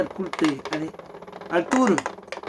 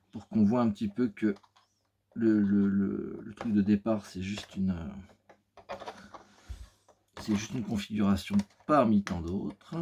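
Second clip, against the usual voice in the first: video game narrator voice; 6 semitones lower than usual. Acted. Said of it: "comme un parleur de jeux vidéo".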